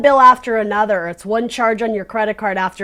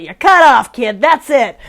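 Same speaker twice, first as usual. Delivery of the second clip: louder mock cut-off, punched up; playful added spin; 5 dB louder than usual. Tarot reader jokingly cutting off a kid, playful spin. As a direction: put a joking, emphatic spin on it. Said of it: "I should put, like, a little spin on it".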